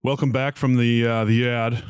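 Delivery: a touch miserable, hesitant show intro. Real, not acted. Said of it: "Why do you sound so miserable?".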